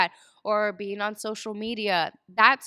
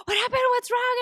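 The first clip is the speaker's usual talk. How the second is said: worried husband; 5 dB louder than usual. Retold or imitated. Husband asks after she screams.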